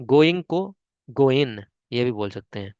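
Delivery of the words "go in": "go in" said as two plain syllables, g dropped. Shown as a demonstration. Teacher showing the American way to say going. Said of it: "American English में आप इसको ऐसे pronounce".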